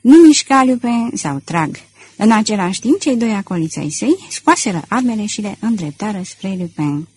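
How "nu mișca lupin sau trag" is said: sharp commanding shout at gunpoint; a gunman's loud warning; loud threat. Acted. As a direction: bark the threat to freeze him. Sholmes threatens Lupin at gunpoint.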